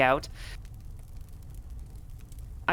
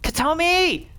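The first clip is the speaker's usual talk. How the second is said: high, loud, relentless calling; desperate searching scream; screaming a name; 12 semitones higher, 5 dB louder, slower than usual. Acted. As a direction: scream the name over and over into the blaze. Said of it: "screaming relentlessly".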